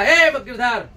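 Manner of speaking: acted employer's loud summons; chiamata ad alta voce. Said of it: "Girdhar लाल को बुलाया".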